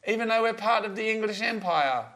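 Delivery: hammy attempt at an English accent. Host defending himself to co-host in a mock English accent. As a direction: protest in a put-on English accent. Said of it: "Can't I do an English accent".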